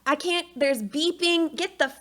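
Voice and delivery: a mild mock of being overwhelmed; lost and frantic in the delivery room; bewildered panic.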